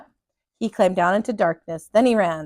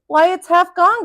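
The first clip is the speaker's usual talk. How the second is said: high, louder cry of dismay; 8 semitones higher, 6 dB louder than usual. A narrator's reading. Captain cries out at the half-eaten cutlass, dismayed. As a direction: gasp it out in shock at the loss. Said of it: "cried the captain".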